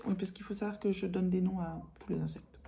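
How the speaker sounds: soft, secretive whisper; whispered confession. Real, not acted. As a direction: confide it under your breath. Confiding whispered aside.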